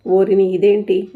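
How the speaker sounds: slow, loud startled exclamation; a loud slow what-on-earth; surprised. Acted. Handle came off in his hand, loud slow surprise.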